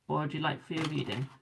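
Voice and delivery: yawning mid-sentence. Real, not acted. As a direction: talk through a yawn. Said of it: "Do excuse me yawning".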